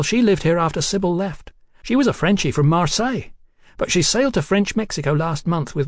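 put-on high, giddy voice of a tipsy young woman. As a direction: play her high and cheeky. Hetty voiced by narrator.

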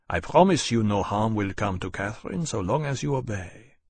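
commanding, controlled Frenchman; cold Frenchman giving orders. Acted. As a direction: lay down the terms firmly.

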